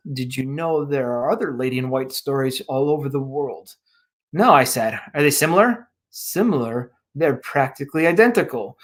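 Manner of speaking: steady storytelling read; story narration. A narrator's reading. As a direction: read it like an audiobook. Author reads his story aloud.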